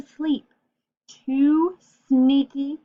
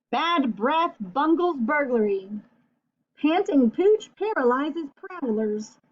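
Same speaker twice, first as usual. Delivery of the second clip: headline reading; slower than usual. Acted.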